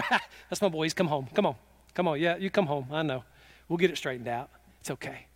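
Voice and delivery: soft, low reassurance after a chuckle; tender welcome. Acted. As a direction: gently welcome your wayward child home. Forgiving father welcomes wayward son home.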